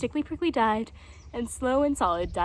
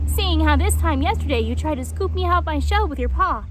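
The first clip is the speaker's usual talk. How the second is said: indignant reproach; 5 semitones higher, 8 dB louder than usual. Acted. Hedgehog reproaches jaguar.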